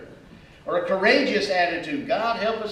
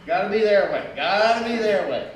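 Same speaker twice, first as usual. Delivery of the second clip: stubborn insistence; 4 dB louder than usual. Acted. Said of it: "a my way or the highway attitude".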